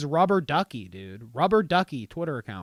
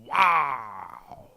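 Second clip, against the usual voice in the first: whispered wow. Real, not acted. Awed whisper after the follower count.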